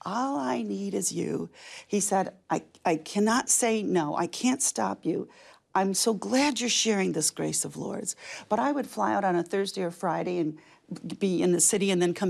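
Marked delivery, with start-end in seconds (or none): 0.1-1.5 slow, gentle imitation of husband; tender retold quote. Retells husband's loving words in car. 2.5-8.2 slow, heartfelt imitation of husband; measured, tender reassurance as retold; sincere retold quote. Retells husband's heartfelt words to her.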